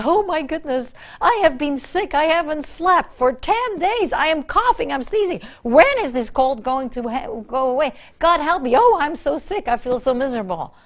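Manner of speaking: a hint of self-pitying complaint; mock whining. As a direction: play up your sick misery like a pity party. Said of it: "I actually started bragging about my symptoms".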